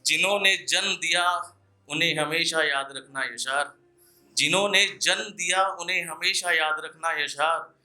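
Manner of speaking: earnest poetic recital, repeating each line for effect; ghazal recitation. Acted. Poet warning listeners in verse, earnest recital. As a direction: plead gently with the crowd through the verse.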